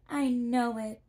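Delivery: put-on a polite girl introducing herself; young girl Dorothy. A narrator's reading.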